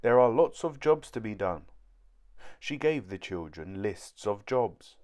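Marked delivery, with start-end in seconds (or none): 0.0-1.7 stern. Acted. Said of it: "she said sternly".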